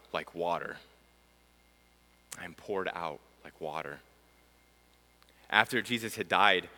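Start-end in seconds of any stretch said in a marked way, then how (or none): 2.4-4.0 soft echo. Shown as a demonstration. Echoing the psalm line to listeners, softly and low. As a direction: let the line sink to a hushed echo. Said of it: "And here's one more".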